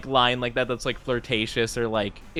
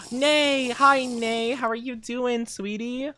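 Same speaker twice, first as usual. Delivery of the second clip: excited greeting; 10 semitones higher, slower than usual. Real, not acted. Greeting a chat viewer.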